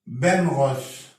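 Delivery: بنغوس said slowly, ng sound; drawn-out بنغوس for students; slow word demo. Shown as a demonstration. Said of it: "ينطق هنا برضو". (نطق بنغوس ببطء)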